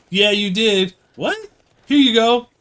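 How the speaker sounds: very high, loud hammed-up announcing; mock excitement. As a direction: play up a pretend prize giveaway. Acted imaginary lottery win skit.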